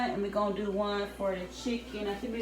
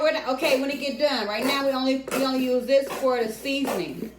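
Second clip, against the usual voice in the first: firm refusal; 4 semitones higher, 5 dB louder than usual. Real, not acted. Mom refuses ketchup, scolding.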